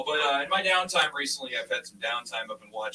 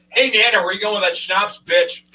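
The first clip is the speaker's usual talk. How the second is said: louder, higher rowdy bar yell; drunk night-shift yell; 8 semitones higher, 11 dB louder than usual. Retold or imitated. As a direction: yell it like a tired night worker gone feral. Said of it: "you say".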